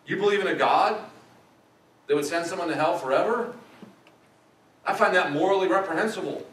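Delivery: a hint of outraged skeptic; mock skeptic. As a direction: play the indignant unbeliever. Skeptic friend's outraged objection.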